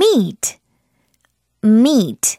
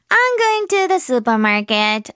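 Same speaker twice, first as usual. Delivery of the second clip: slow model sentence; much slower than usual. Shown as a demonstration. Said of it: "자".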